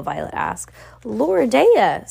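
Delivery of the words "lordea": shouted. A narrator's reading. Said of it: "Sunny shouted".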